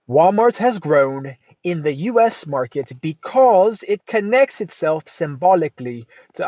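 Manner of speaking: a lightly put-on, half-hearted English accent; mock English accent. Podcaster reading a journal quote aloud in a bad English accent. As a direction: read the quote in a bad English accent, almost your own voice. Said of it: "I don't know why it's an English accent or some kind of shitty accent".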